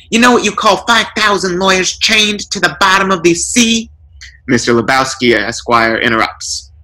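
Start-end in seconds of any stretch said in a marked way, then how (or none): 0.1-3.9 burglar joke. A narrator's reading. Burglar telling lawyer joke.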